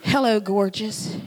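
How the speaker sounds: laughing through hello, gorgeous; a fond chuckle on hello, gorgeous; husband's greeting, laughing. Retold or imitated. Husband on the phone greeting his wife, laughing. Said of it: "he says".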